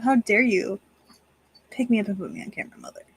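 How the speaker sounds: lightly voiced offended cat, rushed and dropping soft; mock the cat's haughty glare; voicing the indignant cat. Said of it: "The glare he just gave me".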